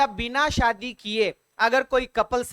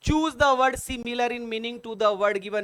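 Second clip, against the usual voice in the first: slow quiz read-out; much slower than usual. Shown as a demonstration. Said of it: "rereads question slowly".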